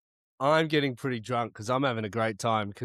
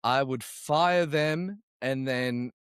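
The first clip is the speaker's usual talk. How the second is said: serious mode; 2 semitones lower than usual. Real, not acted. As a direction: answer it dead seriously. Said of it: "He's gone to serious mode straight away".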